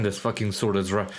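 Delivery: ordinary talk, nothing marked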